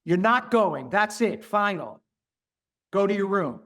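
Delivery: a hint of a stern father laying down the law; mock strict final order; stern parent. Old-fashioned parent forbidding a child, mildly stern. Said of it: "We were told".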